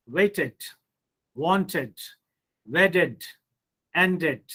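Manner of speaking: "waited" and "wanted" ending in a separate ed syllable; extra ed syllable. Shown as a demonstration. Teacher modelling the rule for students, "wedded" in two syllables. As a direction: list each word separately, "ended" as "end-ed". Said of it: "D or E D becomes ed".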